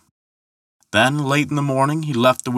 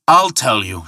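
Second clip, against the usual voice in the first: mildly raised, defiant shout; 3 dB louder than usual. Acted. Thor answering the ferryman's challenge, shouting mildly. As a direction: start a proud shouted answer. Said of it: "shouted Thor".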